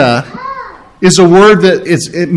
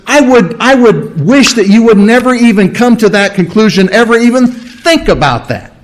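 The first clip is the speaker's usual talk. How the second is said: higher, insistent urging; voicing an apostle's heartfelt, urgent wish; emotional plea; 4 semitones higher than usual. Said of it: "a lot of emotion put behind that".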